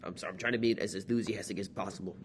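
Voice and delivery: pinched, tight voice pushing through; straining to sound upbeat; strained voice. Real, not acted. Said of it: "my voice is so strained".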